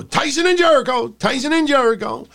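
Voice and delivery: hammed-up announcer repeating the names; Jim Ross impression. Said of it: "gonna get Jim Ross go".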